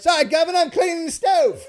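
silly Cooper voice. Pretend. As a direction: yell the excuse in a squeaky cartoon voice. Co-host riffs as Cooper.

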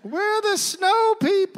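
very high, slow, ghostly call; eerie snow people. Acted. Survivors to rescuers, very high slow ghostly hail. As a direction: announce it like a haunting spirit.

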